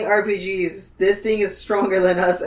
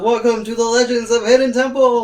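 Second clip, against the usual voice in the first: raised, higher announcing yell; mock yell; 5 semitones higher, 4 dB louder than usual. Stone statue greets intruders, mock yell. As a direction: call it out like a statue come to life. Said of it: "the stone statue yells out".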